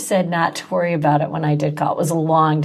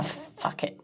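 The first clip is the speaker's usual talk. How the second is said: whispered; 15 dB quieter than usual. Retold or imitated. Quoting her own swear, hushed.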